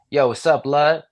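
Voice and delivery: sloppy, slack-jawed rough-neighborhood street talk; casual rough-neighborhood slang delivery; rough-neighborhood accent. Acted. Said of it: "getting a little sloppier".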